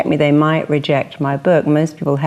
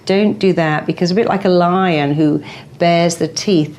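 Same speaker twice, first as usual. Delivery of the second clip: ordinary talk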